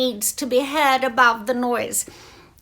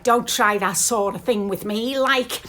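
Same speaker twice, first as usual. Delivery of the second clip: Scouse accent; 3 dB louder than usual. Shown as a demonstration. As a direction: put on a Liverpool accent. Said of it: "Not like the Scousers who say things like".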